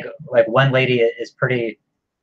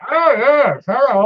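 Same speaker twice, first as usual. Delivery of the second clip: higher posh English accent, imitating a villain; proper English accent; 12 semitones higher, 5 dB louder, slower than usual. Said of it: "that proper English accent".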